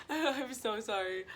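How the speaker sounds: giggling apology; laughing. Real, not acted. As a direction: laugh through it.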